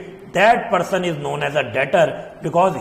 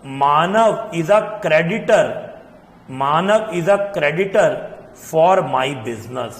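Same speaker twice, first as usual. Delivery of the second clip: slow dictation; much slower than usual. Shown as a demonstration. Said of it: "तो अब मैं क्या बोलूंगा? मैं कहूंगा".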